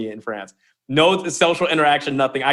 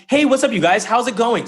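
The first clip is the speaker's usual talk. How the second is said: high, loud, bouncy hello; upbeat greeting; 8 semitones higher, 3 dB louder than usual. Shown as a demonstration. Coach showing listeners how to practice a greeting, upbeat and high. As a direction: greet them brightly, pitched well up. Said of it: "practice talking".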